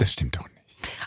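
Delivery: leise geflüstert; flüstere den Einwand. Real, not acted. Widerspricht leise beim Plaudern. (geflüstert)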